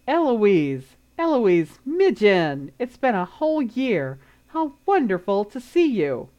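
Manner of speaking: loud, gushing hello across the lawn; loud delighted greeting. Acted. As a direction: call out the name with glee. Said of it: "quite clearly enough for everyone to hear her".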